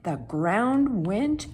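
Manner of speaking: big, slow storyteller build; dramatic slow. A narrator's reading. Narrator makes the giant sound enormous, slowly. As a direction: stretch it out, huge and slow.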